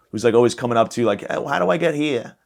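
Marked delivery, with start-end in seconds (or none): 1.2-2.4 higher old-man voice with a put-on Jewish accent. Old geezer asking a passerby directions, put-on Jewish accent. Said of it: "I don't know why I made him Jewish".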